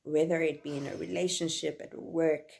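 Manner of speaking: impassioned. Real, not acted. Impassioned outburst about men.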